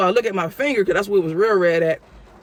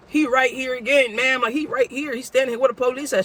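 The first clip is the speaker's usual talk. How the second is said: frustrated; 5 semitones higher than usual. Retold or imitated. Frustrated plea to dispatcher.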